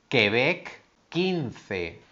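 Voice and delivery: "Quebec" and "quince" with a clean k, the u silent; careful teacher demo of qu. Shown as a demonstration. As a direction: model the qu as k. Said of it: "se pronuncia así".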